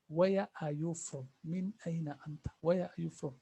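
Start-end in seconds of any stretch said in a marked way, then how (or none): 0.1-1.3 slower. Shown as a demonstration.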